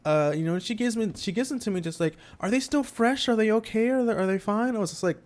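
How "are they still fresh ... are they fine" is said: higher-pitched anxious mom, lightly voiced; a hint of a worried hostess; fussing mom. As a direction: lightly imitate a mom fretting over food. Voicing friend's mom fussing over sandwiches.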